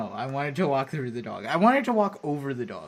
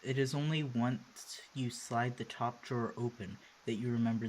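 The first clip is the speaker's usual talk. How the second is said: low-key, measured narrator reading; story narration; 4 semitones lower, 7 dB quieter than usual. A narrator's reading. Player reading game narration aloud, measured storytelling. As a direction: read the scene aloud evenly and quietly.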